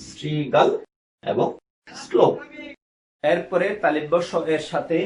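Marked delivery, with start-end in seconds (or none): 0.1-2.3 শ্রীগাল and শ্লোক each set apart, starting on s; careful "srigal", then "slok", no sh; English-S pronunciation. Shown as a demonstration. Teacher recapping for students, শ্রীগাল and শ্লোক with English s. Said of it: "ইংরেজি এস বর্ণের মতো উচ্চারণ".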